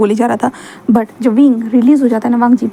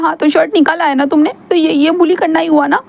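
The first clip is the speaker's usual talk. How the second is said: higher whiny voice, hurt, building to anger; sulky young man; 5 semitones higher than usual. Acted. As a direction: pout and complain like a wounded boy. Wing voiced.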